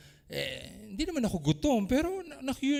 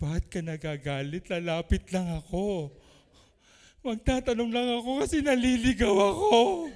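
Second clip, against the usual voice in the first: 1 puzzled innocent asker; 5 dB louder than usual. Retold or imitated. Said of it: "Tapos tatanungin mo".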